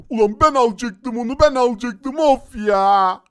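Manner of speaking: loud, indignant complaint; playful frustrated moan; sore-loser whine. Pretend. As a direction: protest the stolen win. Loser complains about lost win.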